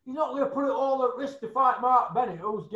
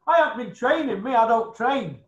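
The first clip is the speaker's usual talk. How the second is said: louder mocking quote of a lazy boxer; mock Dave admitting; 3 semitones higher, 6 dB louder than usual. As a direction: sneer it out as him, louder. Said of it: "admits that he don't train".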